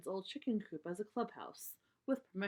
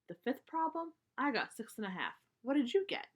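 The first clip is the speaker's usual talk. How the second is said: lightly voiced boy, higher, asking eagerly; a quick homework question to a friend; Cousin Freddie on the phone; 5 semitones higher than usual. Cousin Freddie calls Brother about homework, lightly voiced and higher.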